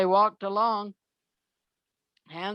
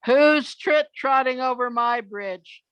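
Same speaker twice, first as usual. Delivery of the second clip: mildly acted troll demand, pitched up; troll's challenge; 4 semitones higher, 4 dB louder than usual. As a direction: raise the voice a touch as a storybook troll. Troll challenges big goat.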